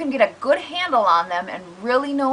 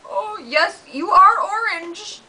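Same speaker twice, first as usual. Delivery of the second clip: comforting dog; 9 semitones higher, slower than usual. Acted. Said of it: "comforts him".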